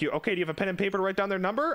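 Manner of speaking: fast quoted clerk. Retold or imitated. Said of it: "they're like".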